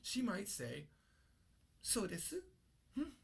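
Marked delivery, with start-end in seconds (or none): 1.8-3.1 rising, annoyed "So desu?"; a put-out girl questioning back; upset girl. Pretend. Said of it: "She's upset".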